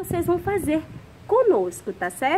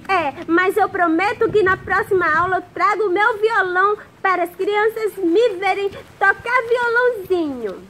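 put-on puppet boy voice; 5 semitones higher, 5 dB louder than usual. Puppet boy Zezinho talks to teacher.

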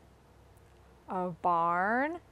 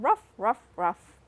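dog barking; 4 dB louder than usual. Retold or imitated. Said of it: "dog saying".

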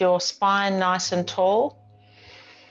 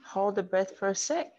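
soft, even yoga-teacher voice; hushed breathing instructions with gentle rises; guided breathing; 8 dB quieter than usual. Real, not acted. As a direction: quietly talk them through each breath, leaving long pauses.

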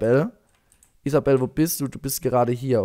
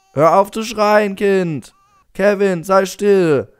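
exasperated scolding; 5 semitones higher, 4 dB louder, slower than usual. Pretend. Scolds crying game baby.

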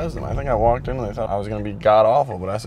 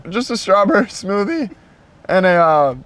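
put-on Canadian accent; 7 semitones higher, 4 dB louder than usual. Keeps ordering in the accent.

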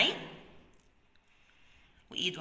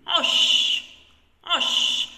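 عش said louder and higher; emphatic word reading; 6 semitones higher, 9 dB louder, much slower than usual. Shown as a demonstration. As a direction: call out عش clearly to the class. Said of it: "هنكتب مع بعض كلمة عش". (نطق عش بصوت عال ومرتفع)

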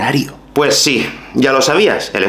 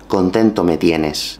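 slow ironic demo; 5 semitones lower, slower than usual. Shown as a demonstration. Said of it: "Presta atención".

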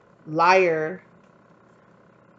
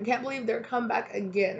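mock whiny lover; 5 semitones higher, 4 dB quieter than usual. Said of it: "is what I'm hearing".

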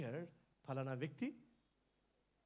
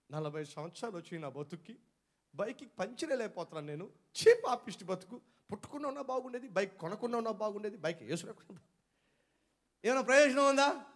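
mock self-pity; 5 dB louder than usual. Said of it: "అక్కడ కూర్చుని ఏడుస్తారా మీరు".

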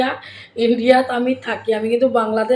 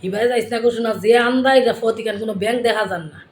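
Sylheti warning; 4 dB louder than usual. Shown as a demonstration. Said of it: "আমরা কই".

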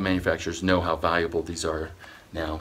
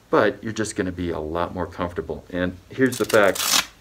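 muffled behind cloth mask; speaking into covered mouth; through a face mask. Real, not acted. Seen 1: Black filter mask covers mouth throughout; removed around 21 seconds.

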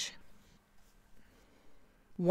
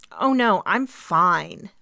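bright dismissal; 4 dB louder, much slower than usual. Acted. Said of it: "I smiled brightly".

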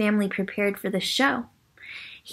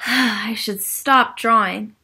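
mildly defeated Linus; 3 dB louder than usual. Acted. Linus gives up.

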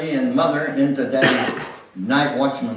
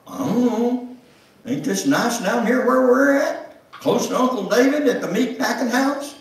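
much higher, put-on voice dodging the question; evasive husband; 12 semitones higher, 5 dB louder than usual. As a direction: voice Jimmy, shrugging it off. Jimmy voiced by narrator.

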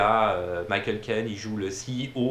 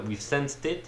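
French-accented English; 4 semitones higher, slower than usual. Shown as a demonstration. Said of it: "mon accent en anglais de poubelle".

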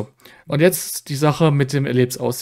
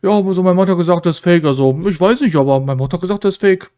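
higher, fast, dim-witted mock quote; a teasing, rushed send-up, pitched higher; mocking Rainer; 4 semitones higher, faster than usual. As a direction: parrot him quickly and a little higher, mocking. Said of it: "Und Rainer".

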